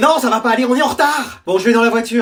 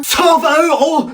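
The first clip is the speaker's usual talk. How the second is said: shocked at price; 5 semitones higher, slower than usual. Acted. Mother shocked at price tag.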